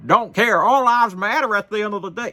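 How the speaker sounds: loud, high mocking quote; mock their slogan, high and loud; mocking imitation. Mocking people who say this.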